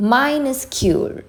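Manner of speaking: drawn-out "Minuscule", starting high; pronunciation demo. Shown as a demonstration. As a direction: model "Minuscule" slowly for learners. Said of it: "pronunciation നോക്കാം".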